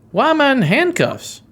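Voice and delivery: high, startled cry of disbelief; acted panicky question; alarmed shock. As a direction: voice jumps up in dismay. Character discovers he is handcuffed.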